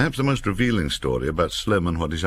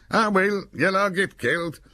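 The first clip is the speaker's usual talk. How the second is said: gloomy soldier. A narrator's reading. Soldiers griping round the fire.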